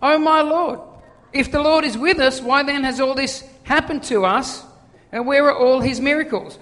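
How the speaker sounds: mock whinge, pitched a little up; lightly whingeing appeal. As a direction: imitate a complainer having a mild whinge. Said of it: "he starts whinging to the angel".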